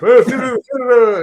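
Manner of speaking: a light, high mock of the guy's reply; sing-song mockery of the stranger; mocking mumble. Retelling the music guy's answer, lightly mocking sing-song. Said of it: "He's like".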